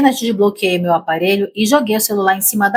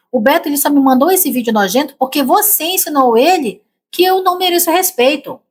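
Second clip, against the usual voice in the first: put-on hateful, furious shout, higher pitch; 6 semitones higher than usual. Retelling how she yelled at her husband: imitating her own furious yelling. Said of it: "Eu gritei com todo o ódio".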